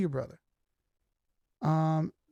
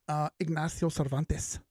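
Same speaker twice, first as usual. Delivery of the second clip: rolling out the name in a slow, playful Spanish accent; slower than usual. Shown as a demonstration. Streamer greeting a chat viewer by name, in a slow playful Spanish accent. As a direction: say Ignacio Cervantes like a Spanish speaker, slowly, for fun. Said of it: "I'm always gonna say it with an accent".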